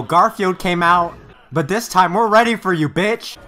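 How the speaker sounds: hyped. Real, not acted. Hyped reaction to a fight.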